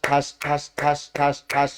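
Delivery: the real clap, not the word ঠাস; clapping sound. Shown as a demonstration. Teacher claps to contrast with the spoken word. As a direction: hand claps in place of saying ঠাস. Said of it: "আর এটা করব, দেখবা দুইটা একরকম কিনা".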